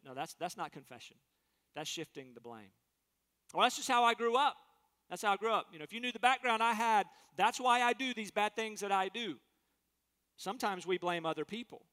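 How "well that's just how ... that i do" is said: defensive excuse. Pretend. Acted excuse blaming upbringing.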